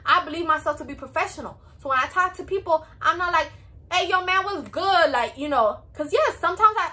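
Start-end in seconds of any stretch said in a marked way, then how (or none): 3.9-5.1 light, upbeat street-casual hello; casual slang greeting. Retold or imitated. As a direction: toss it off like greeting a buddy. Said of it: "I might speak like that to my friends".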